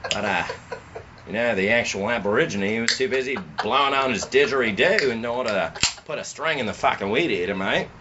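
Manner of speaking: a hint of an Aussie gardener; Australian accent. Friend riffing on garden chores in a light Australian accent. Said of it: "fucking Australian accent".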